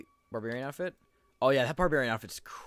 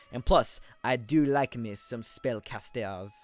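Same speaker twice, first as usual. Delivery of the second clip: slow, badly faked French accent; slower than usual. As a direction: horrific attempt at sounding French. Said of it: "my horrific attempt at a French accent".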